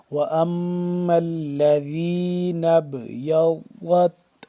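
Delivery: slow chant with a full, heavy ض in ابْيَضَّتْ; drawn-out tajweed, emphatic ض in ابْيَضَّتْ; heavy daad. Shown as a demonstration. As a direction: recite ابْيَضَّتْ with thick daad and light final t. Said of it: "ضاد کو موٹا کر کے پڑھیں گے".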